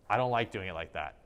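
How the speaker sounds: mildly aggressive, pushed downward; aggressive demo. Shown as a demonstration. Teacher giving an example of aggressive style, mildly forceful. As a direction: push it down with a touch of force. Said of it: "aggressive is going to be down".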